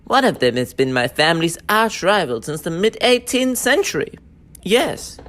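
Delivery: a haughty posh English accent; an aristocrat in a posh British accent; a lofty posh British accent. Shown as a demonstration. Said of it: "Posh British".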